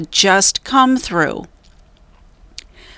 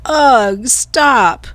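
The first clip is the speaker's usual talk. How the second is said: Annie disgusted; 4 semitones higher, 4 dB louder than usual. A narrator's reading. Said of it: "said Annie".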